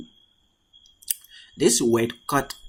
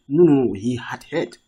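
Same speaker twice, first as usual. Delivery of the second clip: firm, louder insistence on "had heard"; emphatic denial; 5 dB louder than usual. Acted. Teacher voices Allah removing someone's doubt, emphatic. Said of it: "He's placing emphasis in that case".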